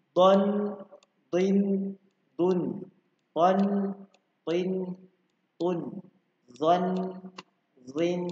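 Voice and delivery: high, loud syllable chanting; energetic drill call-out. Shown as a demonstration. Teacher leads children in spirited read-along. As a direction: shout each syllable for the class to echo. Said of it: "Kita baca sama-sama ya".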